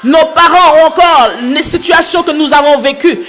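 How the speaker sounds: impassioned praise to God, voice pitched well up; fervent prayer. Real, not acted. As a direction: pray aloud with mounting fervour, pitch climbing high.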